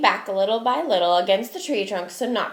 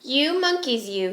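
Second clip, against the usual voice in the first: mild scolding; 3 semitones higher than usual. Acted. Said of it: "he said, shaking his finger".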